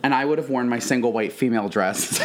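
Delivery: laughing. Real, not acted.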